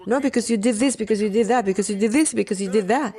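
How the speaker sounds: loud, singsong mock squabble; bickering back and forth. Preacher mimicking immature people going back and forth, bickering. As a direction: rattle off accusations in a repetitive chant. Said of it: "with the back and forth".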